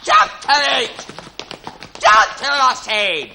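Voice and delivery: sergeant bawling. Acted. Sergeant drilling the men.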